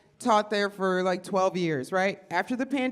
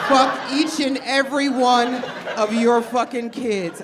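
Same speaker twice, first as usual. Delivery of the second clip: mock rant; 2 semitones higher, 5 dB louder than usual. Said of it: "teacher venting to crowd".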